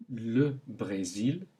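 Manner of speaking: slow le Brésil with closed é; le Brésil slowly; French é. Shown as a demonstration. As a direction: stretch the é in Brésil. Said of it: "Repeat them one more time".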